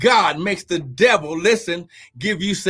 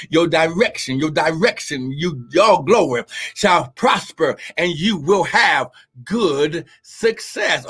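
repeated for emphasis; 4 semitones lower than usual. Real, not acted. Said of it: "I gotta say it one more again".

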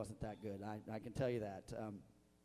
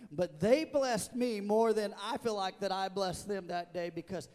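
high, loud, fervent preaching, slowing on key phrases; full-force preaching; 7 semitones higher, 9 dB louder than usual. Acted. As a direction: preach it out to the whole church, swelling with joy.

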